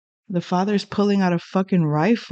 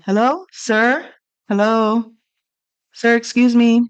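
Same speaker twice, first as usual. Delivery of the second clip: polite calling out; 3 semitones higher than usual. Retold or imitated. Waving, calling to ignoring man.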